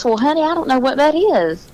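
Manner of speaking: lightly played school teacher; a hint of a patient schoolmarm. Guest shows the hosts her teacher, mild school teacher voice. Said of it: "A school teacher voice".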